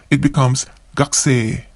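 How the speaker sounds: gakusei said as gakse, the u in ku dropped; devoiced u in ku; silent u. Shown as a demonstration. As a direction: swallow the u in gakusei. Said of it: "we don't pronounce the U in the ku syllable".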